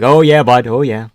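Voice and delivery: lightly voiced Canadian hockey bro. Streamer obliging a chat request, half-hearted Canadian hockey bro accent. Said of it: "Can you a Canadian hockey bro".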